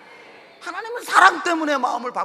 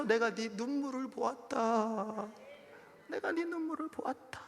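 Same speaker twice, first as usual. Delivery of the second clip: softer, slow reassuring answer; tender God's voice; 11 dB quieter, slower than usual. Acted. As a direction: comfort the weeping one. (하나님이 부드럽게 위로하듯)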